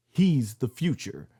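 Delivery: lightly voiced slow proclamation, dragging the words; a hint of a grave wrestler pronouncing his verdict; quoting Brock Lesnar. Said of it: "he goes like".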